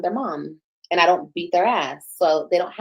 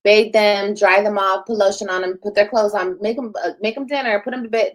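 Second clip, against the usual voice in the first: louder barked chores list; mock bossy orders; 5 dB louder than usual. Mom mockingly ordering daughter Robin around, loud. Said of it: "I don't be like".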